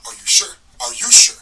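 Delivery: loud repeated challenge; angry yelling; shouting. Real, not acted. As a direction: bark the question at them. Ranting at an imagined accuser.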